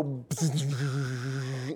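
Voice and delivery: long wordless mouth-made whoosh; imitated noise. Shown as a demonstration. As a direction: make a drawn-out sound effect with the mouth. Imitated noise after "we just go.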